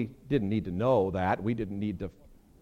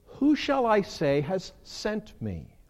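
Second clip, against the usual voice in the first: Moses asking; 6 semitones higher, slower than usual. Retold or imitated. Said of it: "Moses says".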